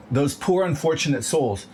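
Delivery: a hint of a scheming villain crooning; mock Ursula line. Speaker mocking desperate people as Ursula, lightly voiced.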